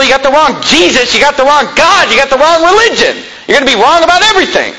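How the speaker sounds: preaching at full force. Real, not acted. Preacher ramping up warning.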